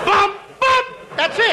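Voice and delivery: breathless and panting; out of breath. Real, not acted. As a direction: gasp the words out, winded. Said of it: "And I'm out of breath".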